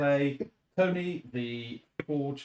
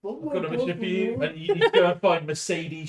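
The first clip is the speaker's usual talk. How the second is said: GTA pimp voice; 3 semitones higher, 4 dB louder than usual. Retold or imitated.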